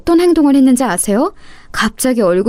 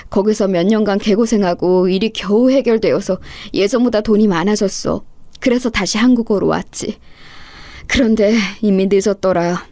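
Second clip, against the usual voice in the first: apologetic uncle; 2 semitones lower than usual. Acted. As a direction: explain with heavy remorse. Uncle explains his past.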